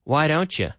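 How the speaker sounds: "don't you" said as "don-cha"; casual "Why don't you" ending in "cha"; you becomes ya. Shown as a demonstration. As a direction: reduce "you" to a linked "ya". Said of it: "the you often becomes ya".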